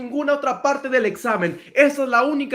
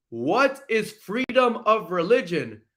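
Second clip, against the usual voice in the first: slow test question; slower than usual. Shown as a demonstration. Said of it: "¿Qué dijo?".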